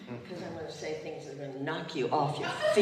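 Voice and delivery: laughing while speaking, a little overcome; words spilling out between laughs; laughing through it. Real, not acted. Pastor laughing to the congregation, half overcome, laughing.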